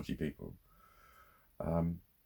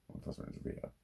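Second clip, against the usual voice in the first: hushed; 12 dB quieter, much faster than usual. Real, not acted. Repeats the line in a hush.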